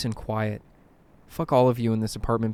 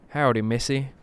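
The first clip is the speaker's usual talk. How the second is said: put-on southern accent. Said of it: "I reply with a southern accent".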